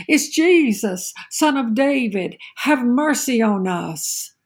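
retold cry. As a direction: mildly imitate blind beggars calling out. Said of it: "And they cried out".

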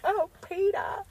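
high, moaning "Oh, Peter" as a cartoon wife; hammed-up cartoon-wife moan; a mock-passionate sigh of the husband's name; Lois impression. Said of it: "that was a horrible impression".

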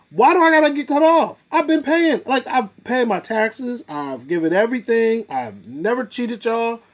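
high pleading, building complaint. Retold or imitated. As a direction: beg like you're being cut off. Pleading with caseworker retold.

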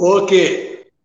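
loud, high call to book it; excited. Real, not acted. Wrestler hyping a dream match, loud excited call. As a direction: cheer it on, book it.

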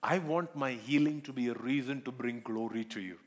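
earnest pleading prayer, slightly slowed; heartfelt prayer. Acted. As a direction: pray it aloud to God, sincerely. Preacher voices a healing prayer.

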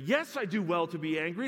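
escalating stubborn repeat; rising defiance. Acted. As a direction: push harder the second time. Repeat, raised further.

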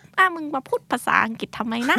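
rapid teasing jab; quick mocking quote of a Thai buddy; mock rude Thai friend. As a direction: tease your friend for speaking English. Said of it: "ผีฝรั่งเข้าเหรอ".

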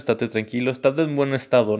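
ordinary talk, nothing marked

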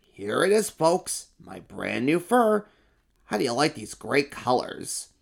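lightly voiced proud emperor showing off; a vain emperor strutting; boastful emperor. Emperor boasts to the crowd about his fur.

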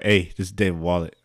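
low, soft executive voice; David Wallet. Acted. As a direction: introduce yourself low and understated. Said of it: "David Wallet was like".

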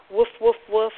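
light demo dog woofs; playful word-like barking. Shown as a demonstration. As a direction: say woofs as a dog, in quick succession. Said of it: "like a dog".

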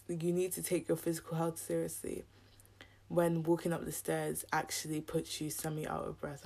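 ordinary talk, nothing marked

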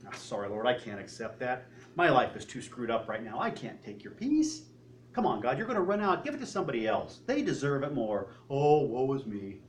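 whiny martyr. Retold or imitated. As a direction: lightly act the poor sufferer refusing the gift. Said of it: "We're playing the martyr".

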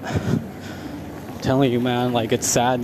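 slow, soft whisper, almost unvoiced; hushed aside. Real, not acted. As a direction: lean in and whisper it. Confiding aside about lying drivers.

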